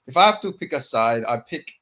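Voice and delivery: lightly imitated video pundit; a hint of his fight-pick delivery; Vlad. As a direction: lightly mimic a deliberate pundit. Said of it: "you know how he does that in his videos".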